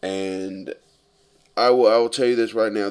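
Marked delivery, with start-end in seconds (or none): 1.6-2.9 emphatic. Real, not acted. Emphatic declaration of opinion.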